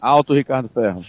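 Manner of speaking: muffled, crowded mic sound; too close to mic. Real, not acted. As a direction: mouth right on the microphone. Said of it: "Tira o microfone do rabo".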